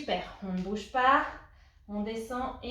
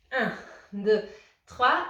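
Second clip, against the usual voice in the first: called-out count; 7 dB louder, much slower than usual. Real, not acted. Coach counting a held squat.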